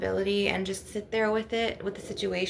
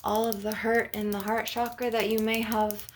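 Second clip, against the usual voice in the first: guided meditation. Acted. Healer guiding listeners to envision a healing ocean, guided meditation. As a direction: lead listeners gently through an imagined scene.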